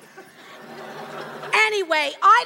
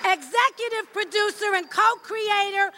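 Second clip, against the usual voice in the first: announcer voice; 3 semitones higher than usual. Acted. Announcer introducing panel.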